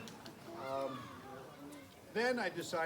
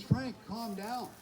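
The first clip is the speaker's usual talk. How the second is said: slow, higher-pitched mock soothing; retold calm; 6 semitones higher, slower than usual. Neighbor tells the panicking owner to settle down, imitated calm. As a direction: imitate someone calmly slowing Frank down. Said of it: "he very calmly says".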